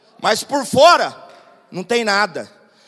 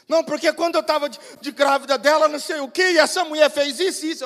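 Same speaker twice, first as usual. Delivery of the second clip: rushed mock-tearful explanation; lightly acted tearful grievance; imitated upset wife; 4 semitones higher, faster than usual. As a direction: gush it out like a woman in distress. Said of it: "você tá chorando desse jeito".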